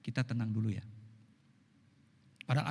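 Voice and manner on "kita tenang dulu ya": calm soothing. Retold or imitated. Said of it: "Saya suka kalau istri saya bilang".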